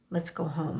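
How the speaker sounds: mother calmly calling her upset son home; gentle. Acted. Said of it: "I say gently".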